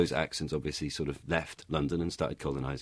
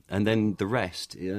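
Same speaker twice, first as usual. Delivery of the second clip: ordinary delivery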